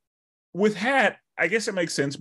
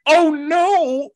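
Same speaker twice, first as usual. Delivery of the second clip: higher, louder mock pity; mock dismay; 6 dB louder than usual. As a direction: ham up the horror at the soldiers' fate. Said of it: "I was like".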